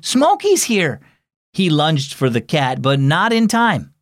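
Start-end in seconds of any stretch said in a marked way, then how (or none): 0.0-1.0 high, slow urgent warning; alarmed warning. Acted. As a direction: stretch it out in alarm. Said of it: "exclaimed Nolan".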